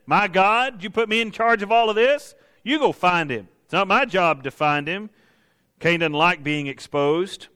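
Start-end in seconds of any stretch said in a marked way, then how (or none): 0.1-5.1 indignant mock back talk, rising in pitch; arrogance. Preacher voices Cain blaming God, arrogantly indignant. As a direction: push the blame back, hammed-up protest. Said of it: "would be that arrogance".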